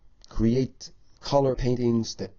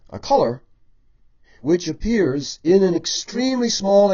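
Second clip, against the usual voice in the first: louder emphatic teaching; 6 dB louder than usual. Shown as a demonstration. Teacher drives home key rule.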